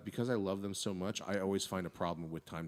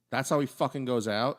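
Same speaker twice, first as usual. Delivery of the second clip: indignant; 3 semitones higher, 5 dB louder than usual. Retold or imitated. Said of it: "I'm like".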